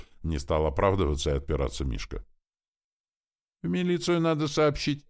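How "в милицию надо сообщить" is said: much higher, small squeaky voice; high piping squeak; squeaky little girl. A narrator's reading. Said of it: "пискнула мелкая Ленка".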